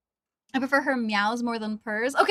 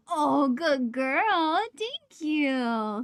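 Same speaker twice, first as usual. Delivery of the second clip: very slow, drawn-out tender praise; much slower than usual. Real, not acted. Praising cat.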